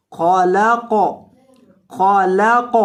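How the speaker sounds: خلق ending with a bouncing echo on the silent ق; qalqala on qaf. Shown as a demonstration. Teacher showing the qalqala bounce on خلق. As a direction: stop on خلق and let the ق rebound. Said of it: "قاف کو ساکن ... ہلا کر".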